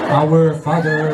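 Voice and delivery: low, slow start of a prayer; captain praying. Retold or imitated. Captain leading passengers in prayer, low slow solemn voice. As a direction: begin the prayer solemnly and slowly. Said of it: "Nanalangin na ho".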